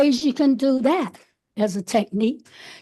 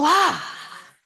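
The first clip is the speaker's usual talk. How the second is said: released ah sigh; 4 semitones higher than usual. Shown as a demonstration. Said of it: "just go".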